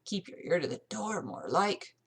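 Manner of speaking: put-on lightly grunted old servant's jibe; grunting manservant. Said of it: "The manservant grunted".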